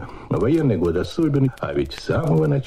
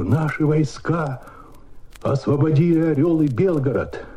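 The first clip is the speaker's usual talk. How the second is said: high, bursting with joy; joyful excitement; 6 semitones higher than usual. Retold or imitated. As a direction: announce the victory unable to hold back joy. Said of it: "как такую радость сдержишь?".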